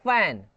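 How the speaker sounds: fan with air rubbing through the lips; friction f. Shown as a demonstration. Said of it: "friction based अगर आपको बोलना है तो बोलो". (फैन में f को घर्षण से बोलें)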